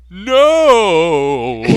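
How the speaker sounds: high, loud hammed-up scream; mock dying cry. Enemy jets cry out as they blow up, hammed-up. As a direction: wail as you explode. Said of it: "said the enemy jets as they exploded".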